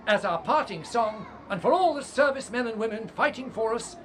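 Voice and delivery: announcing aloud. Acted.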